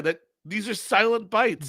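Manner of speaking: eating while talking; chewing quietly. Real, not acted. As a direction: talk through a mouthful. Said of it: "Were you laughing?".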